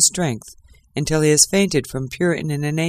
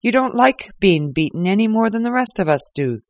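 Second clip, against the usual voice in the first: higher, louder jeer; gloating inspector; 5 semitones higher than usual. Acted. Lestrade taunting Holmes, mild mocking jeer. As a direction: needle him with a grin, lightly voiced. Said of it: "Lestrade laughed loudly".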